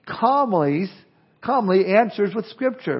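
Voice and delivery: calm. Shown as a demonstration. Preacher showing how Jesus answered, slow and calm. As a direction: ease into it, unhurried and calm. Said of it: "simply calmly".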